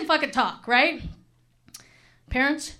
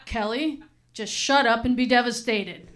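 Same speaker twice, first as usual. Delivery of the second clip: blunt; 3 semitones lower, slower than usual. Retold or imitated. Blunt friend answers the distraught plea.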